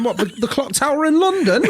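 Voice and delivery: high, laughing incredulous question; laughing disbelief. Retold or imitated. Dad hearing his son's Big Ben answer, laughing. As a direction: ask it while cracking up.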